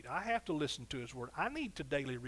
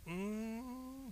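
high soft approving hum; satisfied hum; 6 semitones higher, 7 dB quieter than usual. Real, not acted. Preacher savouring his own sermon point, soft high hum. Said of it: "that's better preaching".

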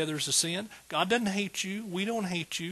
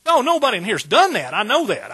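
mock sarcastic; 6 semitones higher, 10 dB louder than usual. Ironic joke about lying.

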